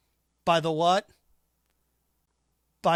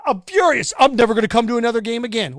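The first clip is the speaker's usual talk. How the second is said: louder hammed-up fan tantrum; mock furious fan; 2 semitones higher, 6 dB louder than usual. Host imitating fans barred from stadium, mock fury. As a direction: rant like an outraged fan.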